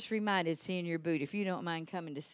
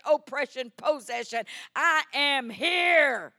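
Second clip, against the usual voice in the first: full-force preaching; 9 semitones higher, 10 dB louder than usual. Acted. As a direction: thunder it out to the whole church.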